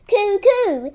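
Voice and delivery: high, loud bird call down the chimney; cuckoo call. Acted. Reggie calling down the chimney as a cuckoo.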